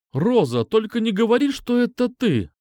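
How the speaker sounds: shout. A narrator's reading. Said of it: "крикнул я".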